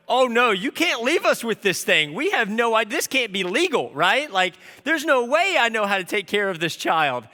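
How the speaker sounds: hammed-up panic at being sent home with the baby; a new dad begging the nurses, half-joking panic; panicked plea. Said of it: "And I'm freaking out".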